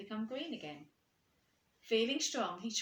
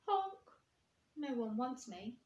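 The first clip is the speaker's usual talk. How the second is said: sniffling; 4 semitones higher, slower than usual. Acted. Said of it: "he sniffed".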